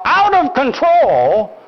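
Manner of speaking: slow, high playful yell; mock yell. Grandpa playing with grandson yells a mock battle cry. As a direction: call it out like a game cry. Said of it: "I grab my toy and I yell".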